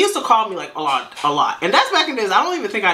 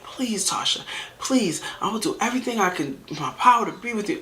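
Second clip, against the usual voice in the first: softer, higher imitation of begging; hushed mock plea, pitched up; mock pleading; 3 semitones higher, 5 dB quieter than usual. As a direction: imitate a man softly begging at the door. Retelling a man's desperate plea.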